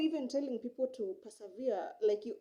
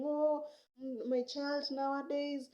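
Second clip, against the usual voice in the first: higher, drawn-out mock lament; lightly acted parental complaint, raised pitch; imitated complaining parent; 4 semitones higher than usual. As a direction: play a parent grumbling about their child. Voices a parent complaining about child.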